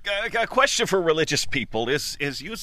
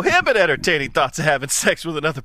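laughing through it; 6 dB louder than usual. Real, not acted. Laughing while reading post.

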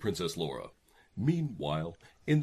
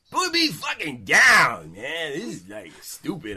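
shouting; 8 semitones higher, 10 dB louder than usual. Acted. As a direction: yell to be put down. Laura yells at orcs.

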